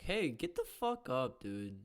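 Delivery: loud, high mock outburst; acted angry yelling. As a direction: yell it at someone to make them stand. Acting out yelling at a fan.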